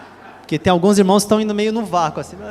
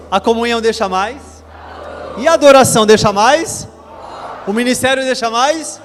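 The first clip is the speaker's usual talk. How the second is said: raised, louder call-and-response questions; chanting leader calls louder; 3 semitones higher than usual. Shown as a demonstration. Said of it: "Vamos falar mais forte".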